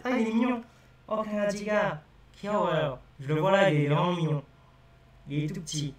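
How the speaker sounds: mock delighted "oh, 강아지가 귀여워요"; acting out spotting a cute puppy. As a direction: coo over the puppy you see. Acts noticing a cute puppy.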